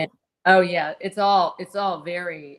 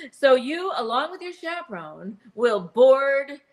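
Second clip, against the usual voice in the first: higher, slow announcer pitch; game show host; 5 semitones higher than usual. Retold or imitated. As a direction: sell the prize like an old TV host. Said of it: "I think he even says".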